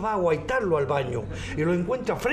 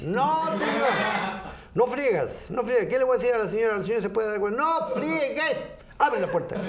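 higher maid voice; 5 semitones higher than usual. Acted.

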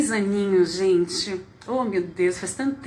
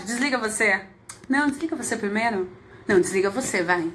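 playful lovers' goodbye banter; giggly late night call. Pretend. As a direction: tease like a sweetheart on the phone. Playful you-hang-up-first goodbye game.

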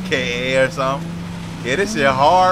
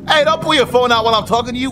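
tag; 7 semitones higher, 5 dB louder, faster than usual. Pretend. Scolds a character he is flirting with.

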